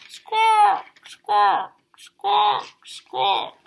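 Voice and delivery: very high, loud bird screeches; magpie squawk. Acted. Teacher voices the magpie refusing the hat. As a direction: squawk back like a cheeky magpie.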